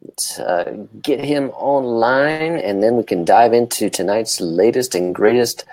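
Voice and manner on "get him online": ordinary delivery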